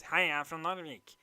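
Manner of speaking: nasal Narvik accent; imitated Narvik twang, through the nose. Shown as a demonstration. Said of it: "they also have a very peculiar accent".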